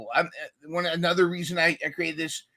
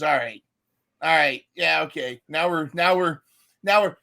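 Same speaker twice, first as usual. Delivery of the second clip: mock chilled calm; 5 dB louder than usual. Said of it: "smooth jazz".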